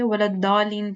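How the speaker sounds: "الضالین" as daaleen with a plain d; short vowel, d sound in "الضالین"; common variant. Shown as a demonstration. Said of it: "پڑھتے ہیں". ("الضالین" دال کی آواز سے)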